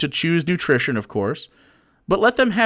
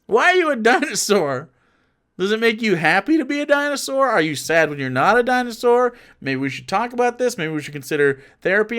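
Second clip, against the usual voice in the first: gentle parent talk; 5 semitones higher than usual. Retold or imitated. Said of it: "Maybe then we can be like".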